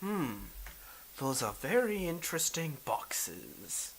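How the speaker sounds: a hint of a ruler appraising goods; mildly theatrical, deliberate warlord; lightly voiced intrigued Daimyo. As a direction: muse over a curiosity as a lightly played lord.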